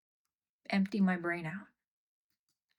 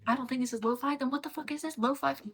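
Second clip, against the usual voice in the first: high, loud disbelief at the music; louder and higher, appalled at what's playing; outraged outburst; 6 semitones higher, 5 dB louder than usual. Real, not acted.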